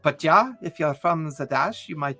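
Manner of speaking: put-on German-accented explaining; hammy German, measured delivery; bad German accent. Shown as a demonstration. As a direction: lecture in a cod-German Zimian accent. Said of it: "which is just really bad German accent".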